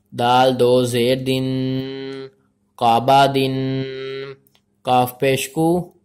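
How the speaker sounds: measured, syllable-by-syllable recitation; spelling-drill recitation. Shown as a demonstration. Teacher spells out Arabic letters for learners, measured recitation. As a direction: recite letter by letter, holding the final sounds.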